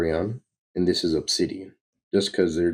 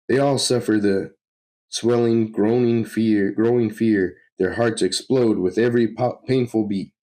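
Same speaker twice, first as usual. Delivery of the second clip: slightly raised, intense villain voice; gloating villain; 5 semitones higher, 4 dB louder than usual. Acted. Villain describes fear swelling in victims, gloating. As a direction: relish each word of dread.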